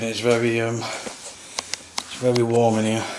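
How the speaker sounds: breathing hard while talking; winded, heavy breaths between words. Real, not acted. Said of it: "Excuse the heavy breathing".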